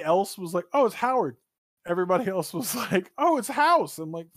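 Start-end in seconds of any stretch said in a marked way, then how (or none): 0.7-1.4 "Oh, it's Howard" raised high on "Oh" and falling; mock recognition of Howard. Contrasting what nobody else said about the photo, raised. 3.2-4.0 "Oh, it's House" pitched very high on "Oh", falling to "House"; mock gamer recognition. Imitating everybody else seeing House, very high pitched. Contrasting friends' answer.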